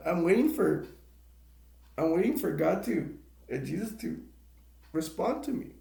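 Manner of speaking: real tears, voice wavering up at the end; pleading to God through tears; tearful plea. Real, not acted. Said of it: "you got me crying".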